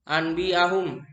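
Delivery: "anbiahum" recited as "ambiahum"; n read as m. Shown as a demonstration. Teacher showing the iklab rule, n in "anbiahum" turned to m. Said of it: "harus dibaca mim".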